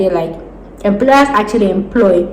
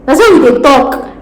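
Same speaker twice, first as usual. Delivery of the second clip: Nigerian Pidgin; 5 semitones higher, 4 dB louder than usual. Shown as a demonstration. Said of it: "That's how we dey talk".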